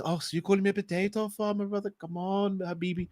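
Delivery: imitating an Arab friend's accent; a hint of Arab accent, teasing; mock Arab accent. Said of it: "Stop doing the Arab accent".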